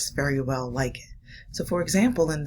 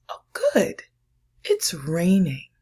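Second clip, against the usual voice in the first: delighted duck; 4 dB louder, slower than usual. Acted. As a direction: squeal with joy at the rain.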